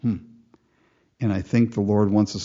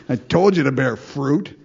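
mock bragging; 4 dB louder than usual. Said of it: "I'll go".

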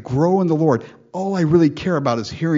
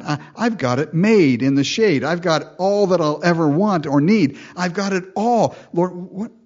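louder and higher, climbing to an eager question; eager grateful believer; 3 semitones higher, 4 dB louder than usual. Pretend. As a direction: ask the Lord what he wants, full of joy.

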